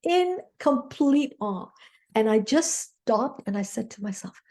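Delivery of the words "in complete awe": slow awe. Real, not acted. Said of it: "in awe".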